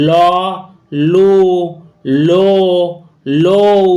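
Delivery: ল, লু, লো, লৌ, each vowel distinct, with pauses between; pronunciation demo. Shown as a demonstration. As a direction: sound out ল, লু, লো, লৌ as four separate syllables. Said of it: "তখন কিন্তু তার উচ্চারণ".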